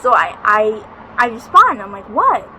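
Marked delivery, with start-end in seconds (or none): 2.1-2.5 higher, raised questioning call; retold calling back. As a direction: act out answering mom's yell.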